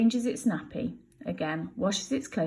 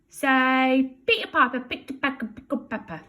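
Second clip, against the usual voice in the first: coaxing Bill; 6 semitones higher, 5 dB louder than usual. Acted. Teaching baby tongue twister.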